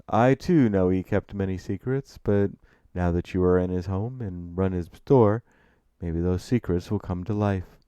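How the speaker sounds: put-on refined, knowing older gentleman; hint at secrets with stately emphasis; Gabriel Jayfield. Narrator voices Gabriel.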